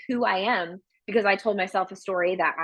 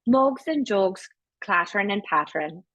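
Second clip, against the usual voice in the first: Irish accent warm-up. Shown as a demonstration. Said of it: "the lines that get me into it".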